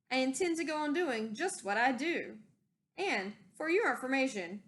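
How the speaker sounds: lightly hammed-up angry rant; yelled. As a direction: shout back at the nagging Lorax. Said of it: "I yelled at the Lorax".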